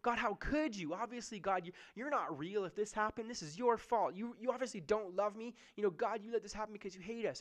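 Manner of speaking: a hint of bitter reproach; mock angry at God. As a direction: rail at God in imitation of a grieving person. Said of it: "we even get angry at God".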